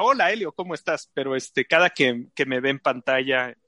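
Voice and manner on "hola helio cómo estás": mock friendly greeting. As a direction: toss off a pretend chummy greeting. Acts out a hypothetical friendly greeting.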